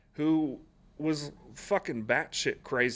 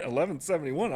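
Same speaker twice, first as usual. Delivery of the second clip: eleven seventy-one said higher with a rising disbelieving tune; incredulous repeat; 4 semitones higher than usual. Retold or imitated. Recruit repeating his assigned job number in disbelief, higher rising tone. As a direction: throw the number back in shock. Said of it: "And I was like".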